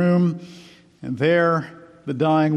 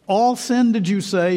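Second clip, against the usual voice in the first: earnest, high-pitched narrated question; raised voice, earnestly checking what was heard; 6 semitones higher, 5 dB louder than usual. A narrator's reading. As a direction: ask it eagerly, louder on the opening words. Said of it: "she asked earnestly".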